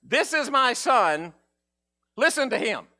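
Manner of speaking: heavenly voice. Retold or imitated. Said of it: "a voice from heaven that says".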